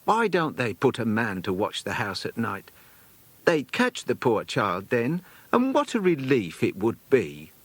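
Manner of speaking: a hint of a bustling old companion at the door; chatty companion. Companion complains about police.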